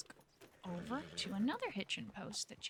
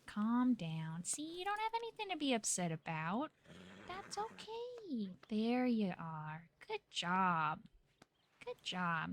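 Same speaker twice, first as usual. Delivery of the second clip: soothing; slower than usual. Real, not acted. Soothing an upset horse.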